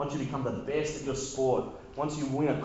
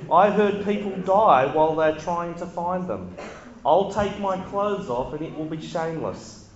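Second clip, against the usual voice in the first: put-on Kiwi accent. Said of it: "where the Kiwi accent just came from".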